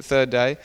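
"third" lifted, rising tune on "day"; "third day" repeated as a rising, pointed echo; stress on third day. Shown as a demonstration. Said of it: "very significant".

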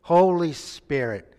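loud and slow, calling it out. Real, not acted. Pastor repeating the answer for the congregation, loud and slow. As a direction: proclaim it slowly to the room. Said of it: "Say that again".

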